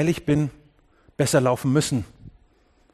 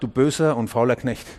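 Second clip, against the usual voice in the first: lightly acted, lower-voiced verdict; stern rebuke; 5 semitones lower than usual. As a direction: deliver the rebuke low and controlled. Rebuke quoted a second time.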